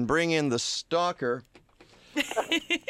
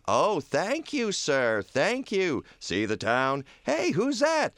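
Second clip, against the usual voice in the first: Clarence; 4 semitones higher, slower than usual. Acted. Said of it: "send for Clarence".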